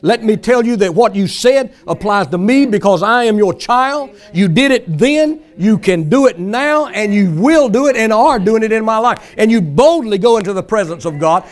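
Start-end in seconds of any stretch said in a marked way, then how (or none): 0.0-9.3 insistent, bold mock prayer; acted boldness, claiming what is owed; bold demand. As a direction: remind God firmly, imitating a confident believer. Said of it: "place demands on the Word".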